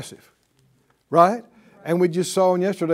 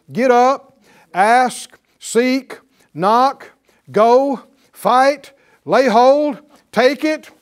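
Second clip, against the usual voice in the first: punchy, louder and higher commands; rousing exhortation; 4 semitones higher, 6 dB louder, slower than usual. Real, not acted. Preacher urging the congregation to get up and act, rousing exhortation. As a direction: fire short orders at the room.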